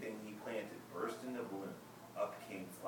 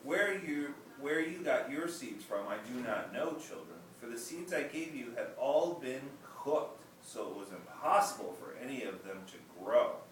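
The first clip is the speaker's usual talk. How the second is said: emperor's speech; 3 semitones higher, 4 dB louder than usual. Acted. Emperor explains the cooked seeds to the children, regal. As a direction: speak like a kindly emperor to the crowd.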